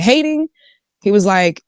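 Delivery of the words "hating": retold disbelief, pitch swooping up high; mock-incredulous, high rising query; incredulous question. Retold reply, questioning the accusation.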